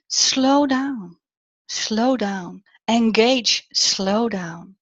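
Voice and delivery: drawn-out, measured coaching words; slowing down. Shown as a demonstration. Coach urging speakers not to rush, slowing down.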